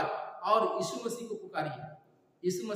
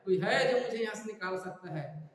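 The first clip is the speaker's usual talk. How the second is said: slightly raised call for help; retold calling out; 3 semitones higher, 4 dB louder than usual. Sinking man calls to a third passer-by, retold calling out. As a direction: call into the distance for a rescuer, half-strength. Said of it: "वो पुकारा".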